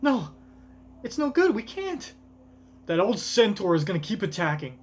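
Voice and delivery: very high, panicked character voice; hammed-up high-pitched alarm; acted panic. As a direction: cry out that all is lost. Reads panicked crew dialogue in character.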